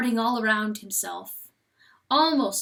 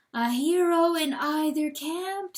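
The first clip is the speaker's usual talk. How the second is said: the voice; 6 semitones higher than usual. A narrator's reading. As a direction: proclaim it like praise. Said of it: "says the voice".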